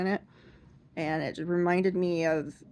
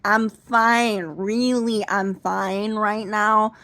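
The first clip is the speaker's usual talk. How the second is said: higher, louder, strained insistence; hammed-up insistence; flustered insisting; 3 semitones higher, 6 dB louder, slower than usual. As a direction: beg her to stop asking. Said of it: "And I said".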